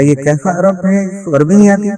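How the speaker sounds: teasing mock surprise. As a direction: tease him as if amazed. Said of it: "میں نے مذاق کیا۔". (مذاقیہ حیرت بھرا لہجہ)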